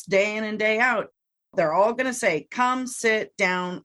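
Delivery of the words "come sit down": slow clear cue. Shown as a demonstration. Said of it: "everybody in the family".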